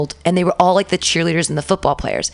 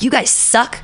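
retold yelling rant; 3 semitones higher than usual. Teacher on the desk at her class, retold yelling. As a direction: let the retold tirade rise in pitch. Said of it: "I just yell at them".

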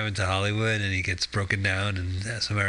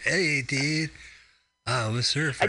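surfer dude; 5 semitones higher, slower than usual. Retold or imitated. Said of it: "It's just like".

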